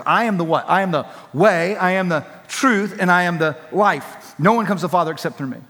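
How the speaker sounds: measured confidence, weight on the key words; confident declaration. Retold or imitated. Preacher quotes Jesus to the congregation, confidently. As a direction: declare it with calm assurance. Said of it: "Jesus confidently said these words".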